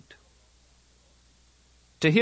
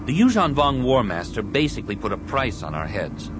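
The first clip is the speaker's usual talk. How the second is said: lightly voiced young hero, raised pitch; Anakin; 5 semitones higher, 4 dB louder than usual. Anakin warns of a price on Jedi heads, earnest and raised. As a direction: report the threat with some urgency, pitched up.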